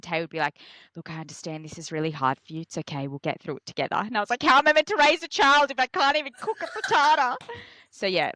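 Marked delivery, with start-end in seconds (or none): 0.9-4.0 softer calm reassurance; calm husband comforting; soothing partner. Retold or imitated. 4.4-7.4 high melodramatic whine; mock despairing wail. Retold hormonal wail.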